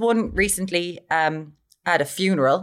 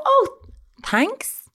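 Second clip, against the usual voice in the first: mock thanks. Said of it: "I just go".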